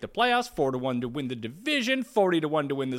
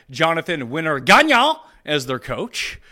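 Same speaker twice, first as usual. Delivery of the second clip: slow hammed-up French accent; fake French accent; 5 dB louder than usual. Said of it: "I do like the fake French accent".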